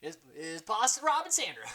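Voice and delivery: high, loud mock gushing; starstruck fan. Host imagines meeting the legends, starstruck squeal. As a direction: gush like an overwhelmed fan. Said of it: "That would be me, too".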